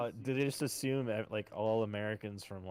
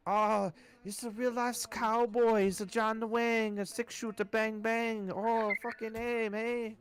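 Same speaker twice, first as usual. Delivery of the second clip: much higher, louder, slow mock fan voice; gushing German fan; 13 semitones higher, 8 dB louder, slower than usual. Fans cheering the American as a real cowboy, high slow mock gush. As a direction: ham up a drunk fan thrilled by a cowboy.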